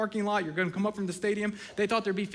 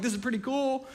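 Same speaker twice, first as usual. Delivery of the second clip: higher, laughing as he says it; 5 semitones higher than usual. Retold or imitated. Embarrassed kid enjoys the room laughing, laughing along. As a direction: chuckle through the words. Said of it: "so then he starts laughing like".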